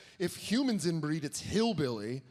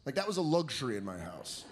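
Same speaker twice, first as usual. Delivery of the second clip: ordinary talk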